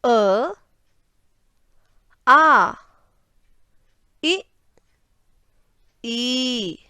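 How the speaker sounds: vowels one by one, long pauses between; short vowels brief, long vowels held out; teacher carefully sounding out each Hindi vowel; vowel pronunciation demo. Shown as a demonstration. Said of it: "अब हम स्वर का उच्चारण करते हैं".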